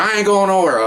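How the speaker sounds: high-pitched mock refusal; imitated defiant yelling. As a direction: act out a belligerent suspect refusing orders. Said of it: "immediately yelling and screaming at us".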